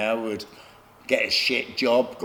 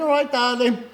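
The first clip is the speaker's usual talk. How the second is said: put-on drunken charm; 11 semitones higher, 4 dB louder than usual. Drunk reply to the woman officer.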